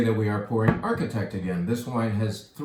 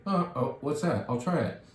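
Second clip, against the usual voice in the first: mock customer surprise; 4 semitones higher than usual. Customer voiced in retold exchange.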